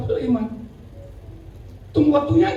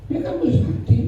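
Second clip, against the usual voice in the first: Mereka mesti sakti whispered with no voice; whispered repeat; 5 semitones higher than usual. Shown as a demonstration. Pastor repeating the point to the congregation, whispered. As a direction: whisper it back for weight.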